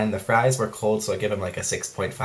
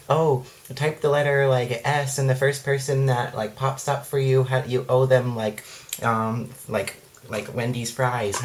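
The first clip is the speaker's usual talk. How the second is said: mocking chain post voice; 3 semitones higher, slower than usual. Mocking Facebook chain posts.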